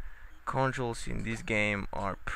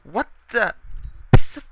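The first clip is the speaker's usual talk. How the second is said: very loud furious shout; angry yell; 9 semitones higher, 12 dB louder than usual. Real, not acted. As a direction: blast it at the game. Raging at game.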